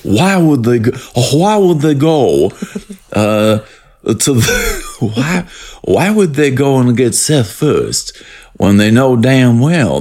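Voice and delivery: put-on a lightly done Southern accent, drawn out. Host imitating Daniel Craig's bad Southern accent. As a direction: lean into a hammy Southern drawl. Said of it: "neither of us do a very good Southern accent".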